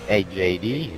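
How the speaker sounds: echoey mic, like in a silo; inside a silo. Real, not acted. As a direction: voice bouncing around a big empty tank. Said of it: "Dude sounds like he's in a fucking silo".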